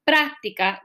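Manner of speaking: práctica with the weight on the first syllable; stress on PRÁC. Shown as a demonstration. Teacher asking where the force falls, stress on PRÁC. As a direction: say PRÁC-ti-ca, front syllable strongest. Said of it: "¿dónde estoy poniendo la, la mayor, ah, fuerza?".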